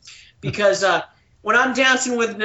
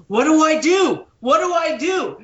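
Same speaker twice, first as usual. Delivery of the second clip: high-pitched mock panic; acting out a dilemma in a high voice; retold fretting; 6 semitones higher, 3 dB louder than usual. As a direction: fret aloud, pitch leaping up.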